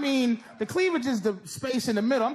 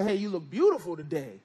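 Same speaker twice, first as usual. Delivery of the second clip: careful compliment; 5 semitones lower than usual. Retold or imitated. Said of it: "gotta be careful just to say".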